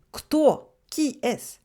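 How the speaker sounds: Kto? lifted high as a question; asking kto. Retold or imitated. Teacher voices a Russian asking about an animal, lightly. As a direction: ask Kto? brightly, then translate. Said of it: "On dit".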